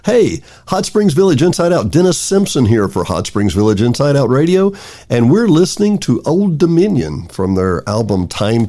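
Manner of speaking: ordinary delivery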